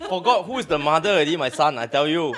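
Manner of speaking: loud laughing rant. Real, not acted. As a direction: laugh through the words. Laughing story about son.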